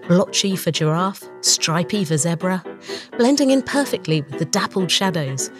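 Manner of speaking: ordinary talk, nothing marked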